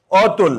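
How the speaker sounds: অতুল spoken slowly as an example; teacher's sample অতুল; demo pronunciation. Shown as a demonstration. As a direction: model the word অতুল. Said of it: "এটার উচ্চারণ হয় এরকম অতুল".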